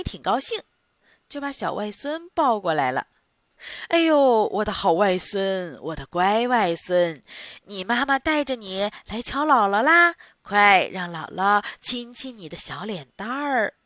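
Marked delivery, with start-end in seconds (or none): 3.9-13.7 doting grandma. Acted. Grandma cooing to bundle.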